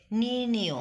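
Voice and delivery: নির্ণেয় with a clear final o; o-ending pronunciation. Shown as a demonstration. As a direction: sound নির্ণেয় as nirnio. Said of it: "এটা ওকারের মতো উচ্চারিত হচ্ছে". (নির্ণেয় ও-কারান্ত উচ্চারণে)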